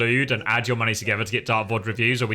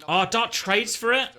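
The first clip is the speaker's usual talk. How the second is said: high, slow astonished question; surprised; 9 semitones higher, slower than usual. Real, not acted. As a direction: react in disbelief. Surprised at trade.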